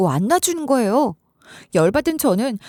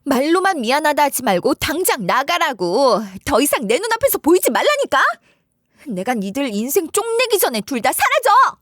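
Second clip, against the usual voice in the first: understated furious shout, retold; mild retold yell; 4 semitones higher than usual. Wife drives them out, retelling her enraged yell. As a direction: spit out a mock furious order. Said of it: "악에 받친 채로 이렇게 소리 질렀어요".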